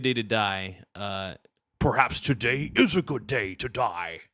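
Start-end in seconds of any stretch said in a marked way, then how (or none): 1.8-4.2 stern Klingon warrior declaration; Worf. Acted. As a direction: declaim it like a proud Klingon officer. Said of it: "I could do a good Worf impression".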